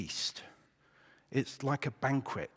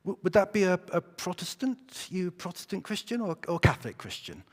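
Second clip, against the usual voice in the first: higher, eager voice for the keen questioner; 8 semitones higher than usual. Acted. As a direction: ask it like an excited new friend. Joke, first guy's eager question.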